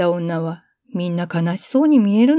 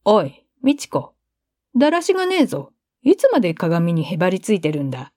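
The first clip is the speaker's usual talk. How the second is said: put-on teasing older brother; faster than usual. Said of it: "兄に冷やかわれた".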